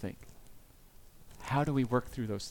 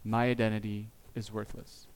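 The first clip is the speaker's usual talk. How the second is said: hopeless self-talk; 4 semitones lower, 6 dB quieter than usual. Retold or imitated. Pastor voices the bottom of the shame spiral, low, soft and hopeless. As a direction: lower and much softer, sinking into despair. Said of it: "And down and down you go".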